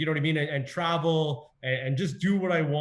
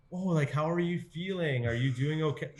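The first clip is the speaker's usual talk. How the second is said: lightly imitated cloying concern; a hint of pitying check-in; mock pity; 2 semitones higher than usual. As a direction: play the over-concerned well-wisher. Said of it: "they pity you or they feel sorry".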